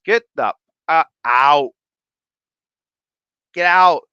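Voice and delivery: loud, high playful shout; hammed-up banishing yell; mock outrage. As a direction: throw them out in mock disgust. Mock ordering viewer out, shouted.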